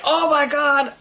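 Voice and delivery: high-pitched fanboy freak-out; retold squealing fan reaction; fantard mode. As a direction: gush it high in fan rapture. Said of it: "I was going all fantard mode".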